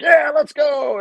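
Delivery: high, loud hype yell; retold team shout. Players answering the coach's speech with a loud pumped-up yell. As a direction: fire the team up.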